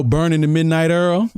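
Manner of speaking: EARL for oil, New Orleans style; Southern pronunciation. Shown as a demonstration. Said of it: "With the southern pronunciation in New Orleans".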